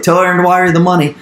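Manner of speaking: impatient repeat. Retold or imitated. Investor repeating himself to Brandon, fast and impatient. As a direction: rattle it off again like he didn't hear you.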